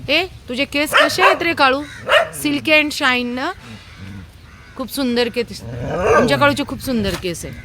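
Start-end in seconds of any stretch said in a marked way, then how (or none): 0.1-3.5 high, cooing sing-song for the dog; high doting pet talk. Real, not acted. Cooing to her dog Kalu. 4.8-5.6 cooing. Real, not acted. Praising the dog's hair, cooing.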